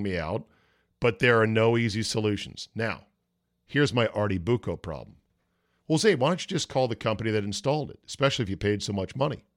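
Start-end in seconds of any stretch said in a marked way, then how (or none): 5.9-9.4 quick, rattled-off question; imagined questioner. Acted. Listener second-guessing Zabe about the installer, rattled off. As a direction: ask it fast, as someone second-guessing.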